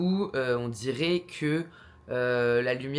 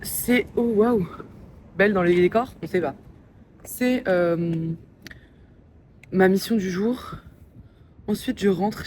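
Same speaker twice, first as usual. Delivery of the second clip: raised voice outdoors in the wind; shouting over wind; 2 semitones higher, 6 dB louder than usual. Real, not acted. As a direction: talk loudly over the wind. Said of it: "si vous m'entendez avec le vent".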